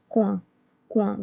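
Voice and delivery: "coin" as one French syllable, "kwan"; merged vowels. Shown as a demonstration. Teacher showing coïncidence without the accent, "coin" as "kwan". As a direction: run o and i together as "wa" in "coin". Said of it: "if we do not put this accent".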